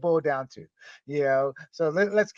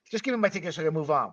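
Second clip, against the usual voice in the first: arrogant; 4 semitones lower, 4 dB quieter, much faster than usual. Retold or imitated. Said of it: "he said it so arrogantly".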